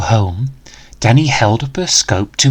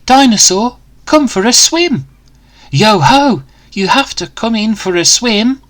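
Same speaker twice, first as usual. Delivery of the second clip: spellbound invite; 9 semitones higher than usual. Acted.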